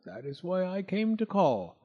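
a hint of a greedy toad; sly toad. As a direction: savour the smell of honey. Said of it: "the smiling Mister Jackson".

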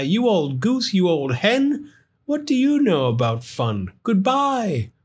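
high, mocking little creature; cheeky taunt; teasing firefly. Gus teasing Sam.

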